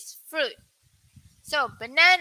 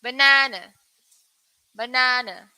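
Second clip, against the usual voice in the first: British pronunciation; 3 dB louder than usual. Shown as a demonstration. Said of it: "so for U K".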